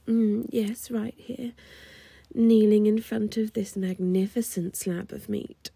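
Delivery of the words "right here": whispering. Acted.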